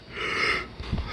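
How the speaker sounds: long breathy yawn with no words; big yawn. Real, not acted. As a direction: let out a full yawn. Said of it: "I'm yawning".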